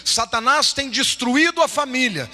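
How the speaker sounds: high, emphatic pulpit warning; impassioned preaching. Real, not acted. Preacher warning that Satan destroys families, impassioned. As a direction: drive it home, high and forceful, slowing at the end.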